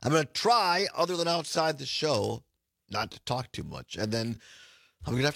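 hoarse raspy throat. Real, not acted. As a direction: speak with a raspy, worn-out voice. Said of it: "I apologize for the raspy voice".

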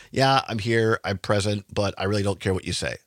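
low, dismissive mumble of a token attendee; mock indifference. Host imitating officials who only show up, mock indifferent.

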